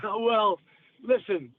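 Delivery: normal talking voice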